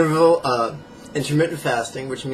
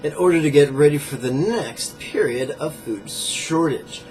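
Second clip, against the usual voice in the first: measured book-passage reading; emphatic nonfiction read-aloud. Acted. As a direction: read it out from the book, a touch more projected.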